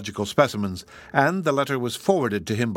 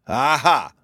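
Aha called out, louder; cried out; 3 semitones higher, 5 dB louder than usual. Acted. Morehouse greeting Flannery at the door, cried out. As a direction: crow Aha triumphantly. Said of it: "he cried".

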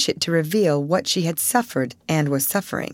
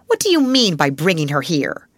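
stern headmistress; 4 dB louder than usual. Acted. Headmistress scolds the child.

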